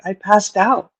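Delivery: a soft, sorry little "I passed out." with a rising end; quietly deflated, as if still upset; imitating sad friend. Friend retells passing out, mock sad and soft. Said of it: "she was still very sad about that".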